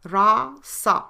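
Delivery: Rasa repeated slowly, RAH-sah with falling tune; slow model repetition of Rasa; repeated for clarity. Shown as a demonstration. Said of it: "is pronounced rasa".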